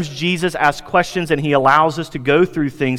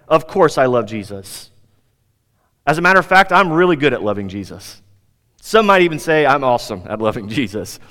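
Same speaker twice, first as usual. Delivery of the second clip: imitating smug self-assurance, each boast dropping in pitch at its end; lightly acted cocky boasting; arrogant. Preacher voices Peter boasting of his love for Jesus, mildly arrogant. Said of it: "Peter would have probably arrogantly said".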